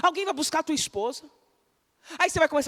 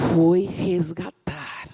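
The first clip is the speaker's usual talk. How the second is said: slow whisper; 7 semitones lower, much slower than usual. Real, not acted. Preacher whispering David's rescue to congregation. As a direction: breathe the words out slowly.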